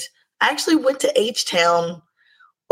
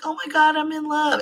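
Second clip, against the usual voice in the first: giddy gush; 8 semitones higher than usual. Retold or imitated. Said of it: "In the past, I'd have been like".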